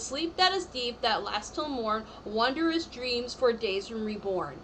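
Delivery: slow, measured incantation read; spell card reading. Acted. Reader intoning a tarot card's spell to the viewer, slowly. Reads the card verse again.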